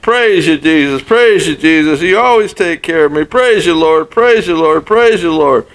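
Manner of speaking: put-on high, excited old lady praising the Lord; thrilled, pitch climbing with each praise. Old lady finding food, thrilled.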